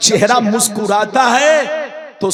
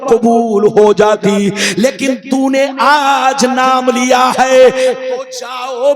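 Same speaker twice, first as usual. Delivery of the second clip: ringing divine proclamation; full-force preaching. Retold or imitated. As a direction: stretch the key words in sermon cadence. Preacher voices God's answer.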